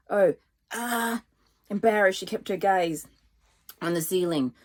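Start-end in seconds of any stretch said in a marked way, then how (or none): 0.1-1.2 strangled ah around a stick; stick in mouth. A narrator's reading. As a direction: say ah with something in your mouth. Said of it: "She managed around the stick".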